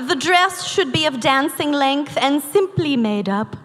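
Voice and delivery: prim mid-Atlantic etiquette reading; affected mid-Atlantic recitation; mid-Atlantic accent. Acted. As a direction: read it like a quote in a put-on mid-Atlantic accent. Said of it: "I think it's called medicated mid-Atlantic".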